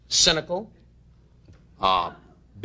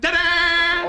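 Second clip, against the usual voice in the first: high, louder mock fanfare call; showman's ta-da; 12 semitones higher, 4 dB louder than usual. Mocking Ed's entrance at the end of the act, a high ta-da. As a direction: announce it like a cheesy stage finish. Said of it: "Ed came in at the end and went".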